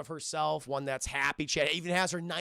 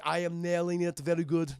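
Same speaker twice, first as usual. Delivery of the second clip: robot voice. Retold or imitated. Terminator voiced in retelling.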